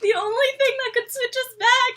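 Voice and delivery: high-pitched imitation of panic; freaking out. Valentine after the greater demon is killed, acting freaked out. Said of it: "like, freaking out".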